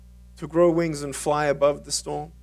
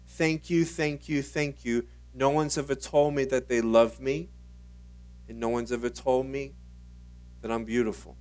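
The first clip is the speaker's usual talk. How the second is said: whispered thanks; 2 semitones lower, 7 dB quieter than usual. Retold or imitated. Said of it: "she whispered in my ear".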